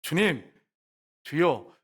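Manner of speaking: mock-pious request with an edge; prickly plea. The woman asking Jesus for that water, prickly. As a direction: imitate a touchy woman pleading. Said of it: "얼마나 까칠한지 보세요".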